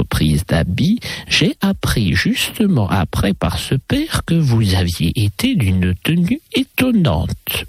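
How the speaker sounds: lightly voiced lady, teasing and sing-song; mademoiselle enjouée. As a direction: play a chatty lady with swooping intonation. (demoiselle légèrement taquine, intonation chantante)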